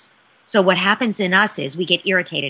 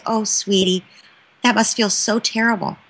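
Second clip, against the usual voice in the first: compassionate comfort. Shown as a demonstration. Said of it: "you say".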